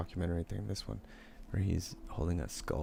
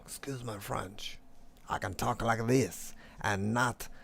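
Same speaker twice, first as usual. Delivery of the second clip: mock fancy voice; 2 semitones higher, 3 dB louder than usual. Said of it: "supposedly I'm half French".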